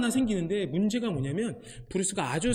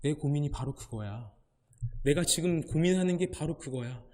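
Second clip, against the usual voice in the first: God's musing answer; 4 semitones lower, 4 dB quieter than usual. Retold or imitated. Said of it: "이 브루스의 질문에 하나님께서".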